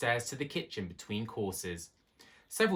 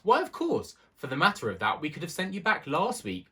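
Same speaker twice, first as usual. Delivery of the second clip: higher, louder offended huff; huffily; 8 semitones higher, 4 dB louder than usual. A narrator's reading. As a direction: snap back, put out. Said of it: "said Johnny rather huffily".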